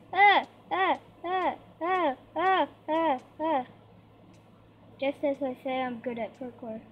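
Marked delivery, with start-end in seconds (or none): 0.1-3.7 panicked yelps. Real, not acted. Panicking during parkour jumps.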